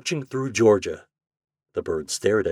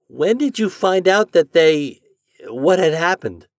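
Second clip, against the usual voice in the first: timid; 10 semitones higher, 8 dB louder than usual. A narrator's reading. Boy asking store owner about the damage, timid. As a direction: ask haltingly, unsure of the answer. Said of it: "asked Homer timidly".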